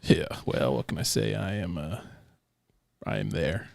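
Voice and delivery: talking through hiccups; hiccupy, slurred words. Real, not acted. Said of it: "The hiccup just makes you sound like a drunk".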